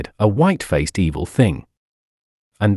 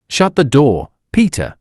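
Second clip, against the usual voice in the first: raised, higher urgent call across the barn; hushed-urgent command to Peter; 3 semitones higher than usual. Acted. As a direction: call out to Peter to shut the door, pressing. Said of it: "said Pestovich".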